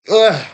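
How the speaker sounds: gag-like ugh at a bad smell; disgusted ugh. Real, not acted. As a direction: recoil from a stench with a high ugh. Smelling something foul.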